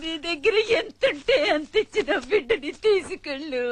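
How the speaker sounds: broken, sobbing confession. Acted. Mother selling her son to the woman, sobbing. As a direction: let the sobs break the words.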